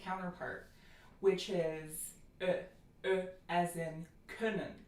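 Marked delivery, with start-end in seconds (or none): 2.4-4.7 ö short, loose and lip-rounded, as in können; short lax ö. Shown as a demonstration. Teacher introducing the rounded counterpart, short lax ö. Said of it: "front rounded lax vowel".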